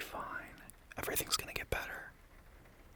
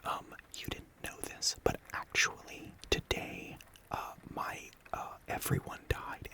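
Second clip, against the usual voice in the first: mock gotcha; 3 dB louder, slower than usual. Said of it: "have, like, a gotcha".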